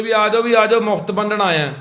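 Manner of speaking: high, loud mock announcement calling villagers; village crier call. Pretending to call the village to take free poison, in a loud mock crier's call. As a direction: call out like a crier at dawn, half mocking. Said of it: "ਤੜਕੇ ਹੋਕਾ ਦੇਣਾ".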